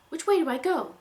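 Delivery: high, loud frenzied cry; frenzied panic. Acted. Unicorn panicking mid-gallop, frenzied and loud. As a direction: blurt it in rising panic. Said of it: "His frenzied voice".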